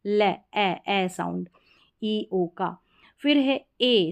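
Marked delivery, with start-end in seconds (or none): 0.0-1.5 ले, ए with the vowel of "egg"; short E sound. Shown as a demonstration. Teacher showing how EO is read, short ए. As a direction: split out ले, then ए, as in "leopard". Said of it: "ईओ करके नहीं पढ़ेंगे".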